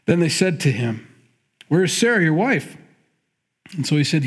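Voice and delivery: lightly lifted reading of the text; scripture reading. Acted. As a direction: read the passage out to the congregation.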